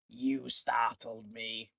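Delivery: slow, taken-aback reply; startled villain. Acted. Pontifex startled by Marek's blade, slow and wary. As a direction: cover the surprise with calm.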